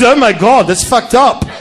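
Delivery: a lightly voiced English man; mock posh gasp; a hint of an English man, shocked. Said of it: "just to hear the voice".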